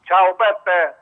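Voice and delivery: over the phone line. Real, not acted. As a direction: caller heard down a telephone. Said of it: "sento la tua voce al telefono".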